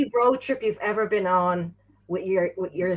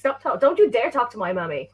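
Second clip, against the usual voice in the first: put-on little mommy's boy. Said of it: "proper little mommy's voice".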